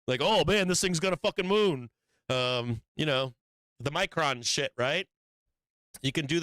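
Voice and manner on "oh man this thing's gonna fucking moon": lightly hammed-up bullish excitement; mock hype. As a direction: imitate an overexcited degenerate trader. Mimics degenerate hyped-up traders.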